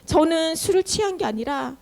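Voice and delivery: acted plea, starting high then easing down; mock tearful pleading. Hannah explaining herself to the priest, lightly tearful plea. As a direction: plead your case as if near tears, lightly acted. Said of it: "하면서 막 울면서 자기 사정을 얘기해요".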